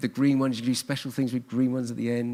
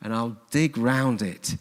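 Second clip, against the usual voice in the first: slow, rural West Country gardener; West Country accent; slower than usual. Acted. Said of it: "Why do I say that in a West Country accent?".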